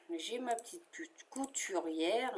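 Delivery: trips on "couturière", breaking it as "cou-, couturière" before getting it out; a real slip of the tongue on "couturière"; stumbling over the word. Real, not acted. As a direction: fumbles "couturière", restarts mid-word. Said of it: "Je bafouille".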